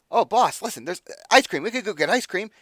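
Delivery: high, loud, eager little imp voice; excited imp. Acted. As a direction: pester the boss like a greedy little imp. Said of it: "he's like".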